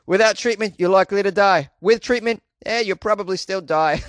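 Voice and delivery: spring the joke on the listener; joke punchline delivery. Shown as a demonstration. Host reworks the snake catcher's warning as a playful joke. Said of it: "I thought I was gonna say".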